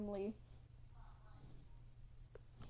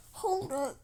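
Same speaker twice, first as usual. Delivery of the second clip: loud, higher challenge; indignant queen; 4 semitones higher, 6 dB louder than usual. Acted. Queen stopping the uninvited dragon, loud and indignant. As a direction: call a halt loudly.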